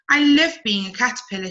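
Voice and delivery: lightly voiced cheerful caterpillar, a bit quick; a happy little caterpillar gushing over her leaf. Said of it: "She smiled happily".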